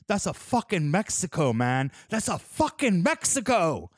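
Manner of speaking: excited car-show yell, half-acted; hyped yelling. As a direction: shout it like a stoked car guy showing off. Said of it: "Just, like, yelling".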